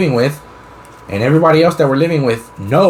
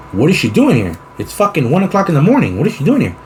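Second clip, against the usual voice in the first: mock indignation; 4 semitones higher than usual. Acts out confronting the sister.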